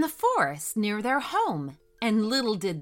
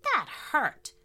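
mock mysterious. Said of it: "said the mysterious item".

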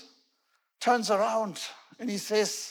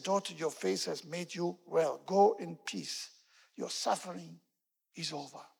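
Jesus gently reassuring the kneeling woman, tender; 2 semitones lower, 4 dB quieter than usual. Acted. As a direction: say it gently, like comforting a child. Jesus blesses healed woman.

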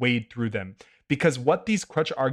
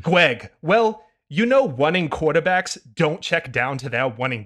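put-on no fun kid voice; 3 semitones higher, 3 dB louder than usual. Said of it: "no fun kid voice".

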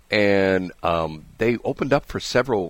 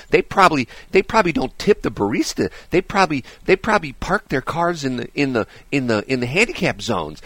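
mock snob rant; 5 semitones higher than usual. Radio host mocking food snobs with an exaggerated snooty rant. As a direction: play the sneering snob with mock outrage. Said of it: "that would be like me saying".

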